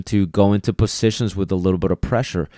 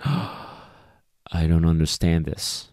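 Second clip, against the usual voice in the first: slow, much softer, put-on bewildered dog voice; confused dog; 3 semitones lower, 6 dB quieter, much slower than usual. Dog reacting to sudden pressure, slow, soft and bewildered. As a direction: voice a baffled dog, slowly and quietly. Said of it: "the dog would be like".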